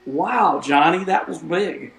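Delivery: playful ballgame-caller impersonation; Harry Carey. Pretend. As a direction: put on a marveling old-time commentator voice. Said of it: "That was my Harry Carey voice".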